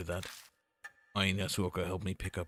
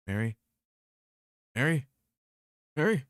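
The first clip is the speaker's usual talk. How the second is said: rising call; 6 semitones higher, 3 dB louder than usual. Acted. Calling louder each time.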